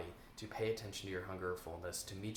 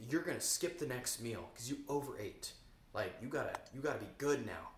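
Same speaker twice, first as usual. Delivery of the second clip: strict inner voice; 2 semitones higher than usual. Retold or imitated. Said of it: "that voice is kinda, like, strict".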